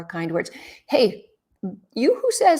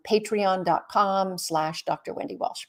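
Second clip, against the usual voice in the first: slow and deliberate, each word spaced out; slow, careful dictation of a web address; slow, clear web address; slower than usual. Real, not acted. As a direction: spell the address out slowly so viewers can type it. Spelling out her web address.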